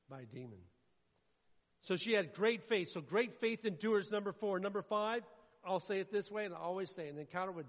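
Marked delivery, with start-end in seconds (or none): 1.8-5.2 loud, driving sermon voice; fervent pulpit preaching; preaching at full force. Real, not acted. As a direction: build the congregation up, full volume.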